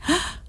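high, soft startled gasp; a small acted "ah" of shock, pitched high; startled cry. A narrator's reading. Annessa recalls the blind man's words, startled high gasp. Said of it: "gridò Annessa".

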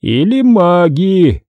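lightly voiced stern chief; stern question. A narrator's reading. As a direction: press the question sternly and slowly. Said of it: "строго спросил он".

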